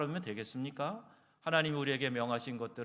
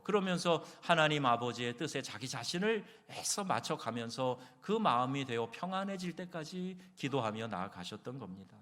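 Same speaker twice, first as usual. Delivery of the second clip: ordinary talk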